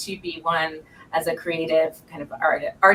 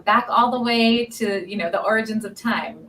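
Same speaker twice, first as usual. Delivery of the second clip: nineteen-seventies groovy; 4 semitones higher, 3 dB louder than usual. Real, not acted. Host jokes about going back to time's origins, playfully grand. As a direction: jokingly stretch it back into a far-off era. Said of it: "you sounded very nicely nineteen seventies there".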